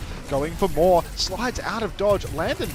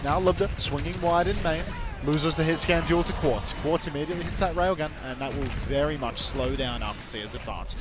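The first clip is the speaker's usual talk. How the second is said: esports caster. Real, not acted. Live play-by-play casting.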